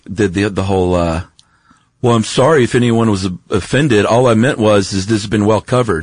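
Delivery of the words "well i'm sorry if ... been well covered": fake apology. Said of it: "He's like".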